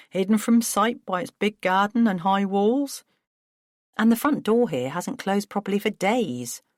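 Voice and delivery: distressed brother voice; Paul, distraught. Acted. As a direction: plead and spill worries fast. Paul panics about burglar.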